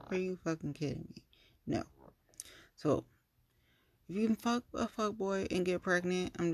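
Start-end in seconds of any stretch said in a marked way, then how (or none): 0.1-1.2 muted incredulous repeat. Retold or imitated. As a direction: repeat it fast, pitch back down. Repeats the retort, dropping back down.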